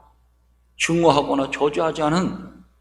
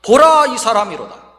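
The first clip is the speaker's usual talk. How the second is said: Pilate proclaiming; 3 semitones higher, 6 dB louder than usual. Retold or imitated. Governor addressing many people at a trial, proclaiming. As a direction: call out the first word, then let it fall. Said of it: "많은 사람들에게 말합니다".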